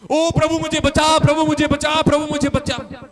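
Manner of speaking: loud, frantic plea to the Lord; panicked cry for help. Retold or imitated. Disciples screaming to Jesus in the storm, loud frantic plea.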